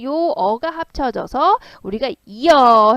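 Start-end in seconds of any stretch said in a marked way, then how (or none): 2.2-2.9 이어 run together as one glide, drawn out and loud; blended vowel demo. Shown as a demonstration. Teacher shows students how two vowels merge, 이어 drawn out as a glide. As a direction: slide from i straight into eo on 이어, held long. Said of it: "해서 발음한 거잖아요".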